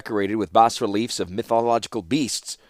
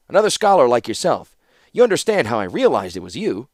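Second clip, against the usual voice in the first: hint of a bear-like traveler, voice raised; lightly voiced Felden; 3 semitones higher, 5 dB louder than usual. Scholar greeting a fellow scholar at the gate, lightly voiced. Felden introduces himself to Lauren.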